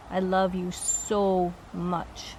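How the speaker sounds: slow, tender relayed love; understated emotion, words drawn out slowly; emotional declaration. Retold or imitated. Relaying his love to the one he left, emotional. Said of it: "He's getting emotional".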